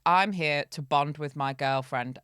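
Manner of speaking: deadpan earnest quote. Retold or imitated. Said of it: "he said it just like that".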